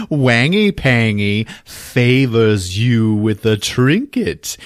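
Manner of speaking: slow, pompous, lightly voiced villain; mock grand villain. Wang grandly giving the girl a trinket, slow and pompous. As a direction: say it like a pompous emperor.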